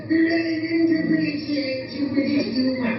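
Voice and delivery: a hint of a prim British accent; British lady. British woman complaining to comedian after show, light British accent. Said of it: "She goes".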